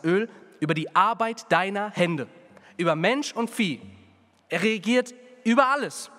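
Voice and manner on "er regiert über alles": triumphant declaration. Acted. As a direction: proclaim it as a climax. Climax declaring God's reign.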